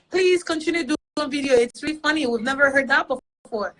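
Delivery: lightly acted fan enthusiasm; imitating eager fans. Voicing fans' messages begging for more.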